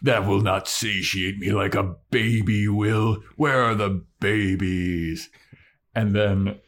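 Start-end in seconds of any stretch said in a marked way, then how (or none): 0.0-5.3 declaiming troll, slowing down. Retold or imitated. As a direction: make a mock-grand troll demand. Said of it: "the troll is like".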